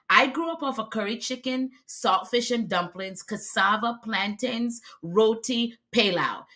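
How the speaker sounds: a touch of West Indian accent slipping out; lightly West Indian-accented list. Real, not acted. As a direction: let your Trinidadian lilt creep into the food names. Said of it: "You see how it comes out when I'm talking".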